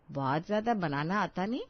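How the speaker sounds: sarcastic repeat with a rise on ज्यादा; mocking echo. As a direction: throw the bride's words back at her in disbelief. Mother-in-law frowns, echoes bride.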